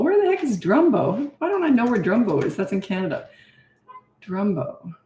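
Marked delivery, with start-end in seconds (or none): 0.0-2.6 puzzled surprise. Real, not acted. Baffled by unknown town.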